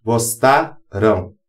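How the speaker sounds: Gostarão, terminação pronunciada como ão nasal; fim nasal ão. Shown as a demonstration. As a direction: diga Gostarão devagar, marcando o ão. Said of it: "cujo M dá um som de O". (pronúncia lenta de Gostarão com ão nasal)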